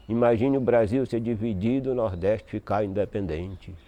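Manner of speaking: steady, measured verse recitation; poem recital. Acted. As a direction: declaim the stanza in even beats. Recites a ten-syllable poem. (recitação de cordel em versos ritmados)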